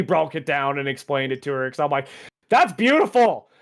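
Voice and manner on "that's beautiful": higher-pitched burst of awe; retold gushing. Telling girlfriend about an action movie, retold gushing. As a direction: gush about it, mildly hammed-up.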